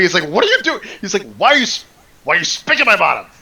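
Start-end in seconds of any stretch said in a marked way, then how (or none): 0.3-0.8 put-on high laughing shriek of a spanked kid; panicked scream. NPC squealing while being spanked over a knee. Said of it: "he starts screaming". 1.4-3.3 put-on high laughing shriek of a spanked kid; panicked scream. NPC squealing while being spanked over a knee. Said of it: "he starts screaming".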